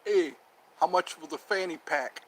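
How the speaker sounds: a hint of a hard bargainer; mock tough talk. Haggling over a fanny pack, lightly tough. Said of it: "It sounds different when you talk tough".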